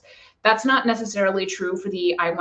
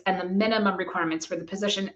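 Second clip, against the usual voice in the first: quick phrase with the weight on "minimum"; stress on minimum; 5 dB quieter, faster than usual. Real, not acted. Listing for employers what the position needs, stress on "minimum". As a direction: lean on the word "minimum". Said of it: "emphasis on minimum".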